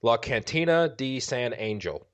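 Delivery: slow, heavy Boston accent. Shown as a demonstration. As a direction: drawl it out in thick Boston. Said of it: "I said that with a heavy Boston accent".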